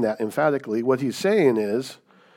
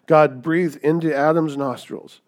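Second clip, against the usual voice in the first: slow, loud, with each word weighted; loud emphatic preaching; 5 semitones higher, 8 dB louder, slower than usual. Shown as a demonstration. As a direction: proclaim it like the climax of the sermon. Preaching climax, said twice.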